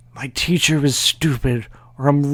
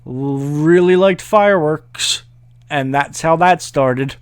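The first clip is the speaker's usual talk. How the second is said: confident bluff; 5 semitones higher than usual. Retold or imitated. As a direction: spin it like a know-it-all. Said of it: "I was like".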